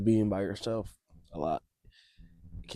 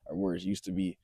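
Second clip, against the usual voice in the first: shaky voice. Real, not acted. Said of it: "If you can hear my voice shaking".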